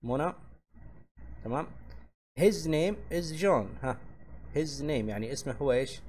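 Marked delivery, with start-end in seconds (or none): 2.4-3.9 extremely slow, higher, stress on His; slow model sentence. Shown as a demonstration. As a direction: dictate it word by word. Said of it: "زي هنا تقول". (نطق بطيء جدًا مع التشديد على His)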